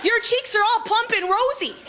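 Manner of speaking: gushing admirer. Retold or imitated. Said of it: "someone would come up to me and go".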